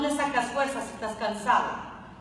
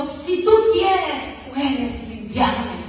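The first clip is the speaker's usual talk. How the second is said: slow humble plea; much slower than usual. Acted. Leper begs Jesus.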